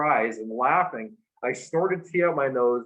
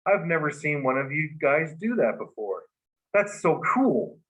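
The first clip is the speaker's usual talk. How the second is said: friend's amazed voice; 3 semitones higher than usual. Retold or imitated. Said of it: "he said".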